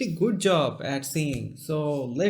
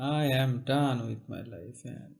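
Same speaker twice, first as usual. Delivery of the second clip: pained; 2 semitones lower, 4 dB quieter than usual. Real, not acted. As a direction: say it drained, dropping away at the end. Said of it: "I hear the pain in your voice".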